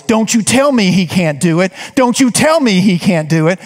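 insistent, a touch of defiance; defiant attitude. Retold or imitated. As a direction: push back with conviction, unwavering. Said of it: "I just love that attitude".

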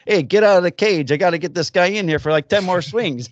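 loud, high mock bark at the kid; hammed-up Italian coach yelling to clear the cage; old Italian coach shouting. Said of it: "this old Italian guy goes".

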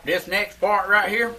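talking while chewing; words round a bite of food; mouth full. Real, not acted. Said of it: "sees me talking with my mouth full".

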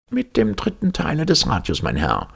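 high, blustering blurt. Acted. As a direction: bark the answer out in a huff. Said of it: "polterte Palmyrin Rosette heraus".

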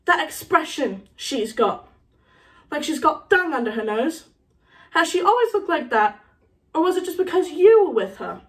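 lightly voiced needling schoolboy; Harry. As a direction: goad him about his mother.

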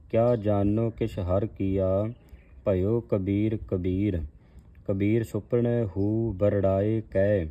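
slow, measured verse reading; scripture recitation. Acted. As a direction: recite each word deliberately, x0.6.

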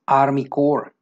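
"Corps" said as "cor", no p or s; silent final letters. Shown as a demonstration. Teacher showing army term, "Corps" with silent p and s. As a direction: say "Corps" slowly, ending on the r. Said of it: "no se pronuncian estas dos últimas letras".

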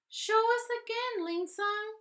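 high, eager shout; children shouting. A narrator's reading. The children begging Ling Sung to show them again, shouting. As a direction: call out eagerly as a class. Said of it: "they shouted".

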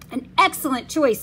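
put-on German accent. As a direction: play a German printer greeting customers. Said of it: "said a man with a thick German accent".

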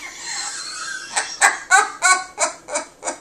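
high breathless laugh bursting out; real high laugh. Real, not acted. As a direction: laugh at your own story, high and airy. Laughing at own punchline.

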